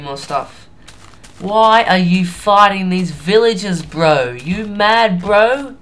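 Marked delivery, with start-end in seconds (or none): 1.4-5.8 high, loud mock Asian accent; fail Asian accent. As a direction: scold them in a hammed-up, badly faked Asian accent. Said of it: "Enough of my fail Asian accent".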